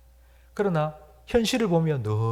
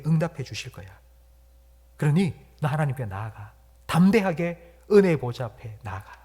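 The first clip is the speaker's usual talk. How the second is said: voice of the Spirit. Acted. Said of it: "성령님께서 우리에게 들려주는 소리".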